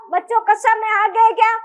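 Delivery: कस्सा with a double s in place of क्ष, lightly put on; imitating Hadoti teacher. Teacher mimics a Hadoti-speaking teacher addressing pupils, lightly voiced. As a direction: mildly mimic a local teacher calling children to class. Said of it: "वो ऐसे बोलते हैं".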